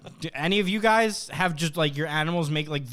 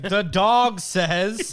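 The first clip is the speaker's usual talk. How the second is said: very slow, louder see-and-say toy voice; 3 semitones higher, 6 dB louder, much slower than usual. Pretend. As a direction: drawl it like a farm toy. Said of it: "be like".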